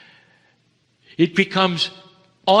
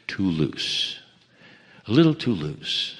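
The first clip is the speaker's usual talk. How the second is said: mock complaint; 6 semitones lower, 4 dB quieter than usual. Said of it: "there are those who say it's not good enough".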